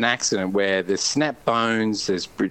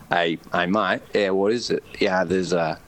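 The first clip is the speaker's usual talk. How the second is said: laid-back local; 6 semitones lower than usual. Retold or imitated. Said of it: "they're so laid back".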